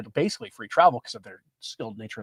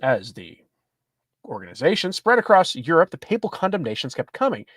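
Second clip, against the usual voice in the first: lively, articulated article read; reading an article aloud; 4 semitones higher than usual. Acted. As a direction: read the report out to listeners. Reads news article aloud.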